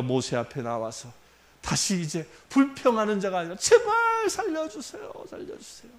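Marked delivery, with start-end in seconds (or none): 3.6-5.9 much higher and slow, fading into breath; desperate pleading. Retold or imitated. Dying Israelites begging God for mercy, desperate plea. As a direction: beg for your life, then trail off. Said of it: "하나님을 간구합니다".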